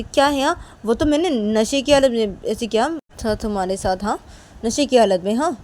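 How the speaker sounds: defensive retort. Acted. Defending drunken behaviour to the other woman, defensive. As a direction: fire back a loud excuse.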